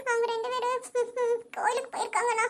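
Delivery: words broken up by hiccuping sobs; sobbing. Acted. Sister tells brother where the parents went, sobbing. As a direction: answer between sobs. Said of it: "அழுகாத சாமி".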